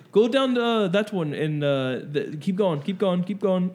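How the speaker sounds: lightly put-on Arabic accent drifting into Mexican; Arabic-sliding-to-Mexican accent. Shopkeeper directing a customer down the aisles, wobbly Arabic-Mexican accent. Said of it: "What kinda accent was that?".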